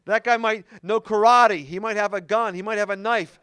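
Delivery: half-yelled comic nagging; mom yelling out. Retold or imitated. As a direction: imitate mom calling warnings from the back seat. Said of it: "yelling out".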